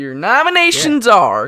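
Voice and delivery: American Southern accent. Reading out the film editing nominations: Southern accent. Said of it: "don't know why I went Southern there".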